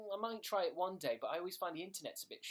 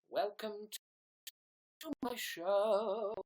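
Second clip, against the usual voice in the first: show host voice; 5 semitones higher than usual. Pretend. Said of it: "sing an intro song".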